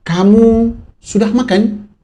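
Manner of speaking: slow, rising question tune on Kamu sudah makan; asking tone. Shown as a demonstration. Teacher shows pupils a question by tone alone, slow asking tune. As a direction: ask it as a real question, slowly. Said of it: "nada itu nada bertanya".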